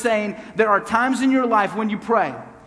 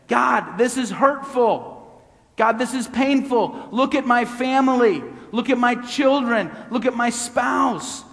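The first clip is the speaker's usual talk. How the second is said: desperate prayer; 3 semitones higher than usual. Acted.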